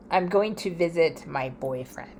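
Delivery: whispered aside. Real, not acted. Telling viewers about her ex's boyfriend, whispered aside. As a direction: lean in and confide it. Confiding about ex-friend's new life.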